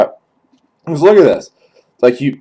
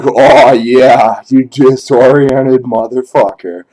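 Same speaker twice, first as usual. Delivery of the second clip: louder mock taunt; 4 dB louder than usual. Taunting the sprayed victim.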